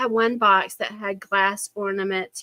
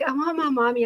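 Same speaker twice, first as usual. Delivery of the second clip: imitated upset grandchild; 5 semitones higher than usual. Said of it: "She's like".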